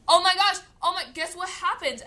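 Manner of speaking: put-on breathless teen telling a story; excited gossip. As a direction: burst with news for the parents. Telling parents exciting news.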